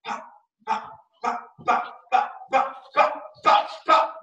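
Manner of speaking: rapid run of pops, breathy and fast; quick count. Shown as a demonstration. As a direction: fire the pops off quickly, one after another. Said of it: "a little bit less than Mister Ben's feet".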